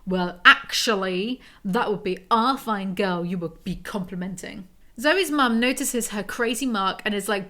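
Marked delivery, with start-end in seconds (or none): 0.0-4.7 smug superior. Acted. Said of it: "in his usual "I'm so superior" voice".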